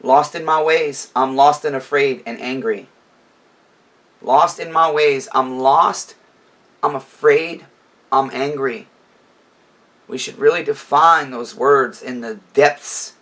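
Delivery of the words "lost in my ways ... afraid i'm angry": louder lyric recital, slow on the refrain; reciting lyrics louder. Retold or imitated. Vlogger reading sad lyrics to viewers, loud and earnest. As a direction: press the words out with feeling. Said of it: "I'm gonna tell you what he says".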